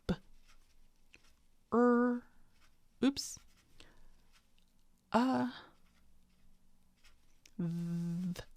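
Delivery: "b", "er", "uh", "th" as slow separate sounds, th breathed; phonemes sounded out. Shown as a demonstration. Teacher writes the phonemes of brother one by one. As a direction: sound out each phoneme while writing. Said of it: "have them break this apart".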